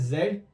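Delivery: जेड as "zed" with a buzzing z; British Z name. Shown as a demonstration. Teacher naming the last letter, British Z name. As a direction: say जेड with z, not j. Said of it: "जेड को जेड पढ़ते हैं".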